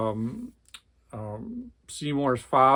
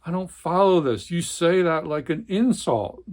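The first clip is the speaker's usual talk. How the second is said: higher and louder, indignant; indignant protest; 5 semitones higher, 4 dB louder than usual. Acted. Swede protesting to his brother, indignant. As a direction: push back, stung by the accusation.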